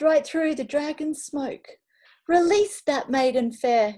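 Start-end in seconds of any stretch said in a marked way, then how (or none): 2.3-3.9 roared. A narrator's reading. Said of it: "he roared".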